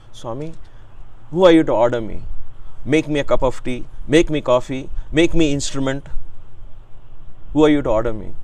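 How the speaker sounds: mock-indignant guru, lightly voiced, firm measured phrases; a touch of scolding teacher; imitating Swami. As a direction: challenge the disciple with playful sternness. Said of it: "In Swami accent, you know, he becomes a child".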